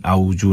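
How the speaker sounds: "अऊज़ु" said with j, as a-oo-ju; conversational "अऊज़ु" with a j; wrong j sound. Shown as a demonstration. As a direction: say "अऊज़ु" with j in place of dhal. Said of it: "अऊज़ु नहीं".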